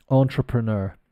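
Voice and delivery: "Entrepreneur" as AHN-truh-pruh-NUR, English accent; French word "Entrepreneur" with plain English sounds; anglicised French pronunciation. Shown as a demonstration. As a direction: say "Entrepreneur" as French badly done by an English speaker. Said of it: "but in an English accent. So badly, let's say".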